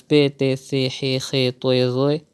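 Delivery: letters "be, te, se" named Urdu-style with an e vowel; Urdu-style letter names. Shown as a demonstration. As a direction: say "be, te, se, he" the Urdu way, not Arabic. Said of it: "avoiding Urdu pronunciations".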